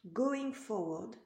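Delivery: slow English words with a heavy French accent. Real, not acted. Tarot reader reading the card aloud to her client, French-accented English. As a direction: read the English card text slowly in a thick French accent. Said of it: "avec mon superbe accent".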